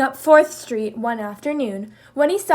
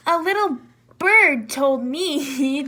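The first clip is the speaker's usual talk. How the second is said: joking; 2 semitones higher, 3 dB louder, slower than usual. Acted. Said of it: "joked Kangaroo".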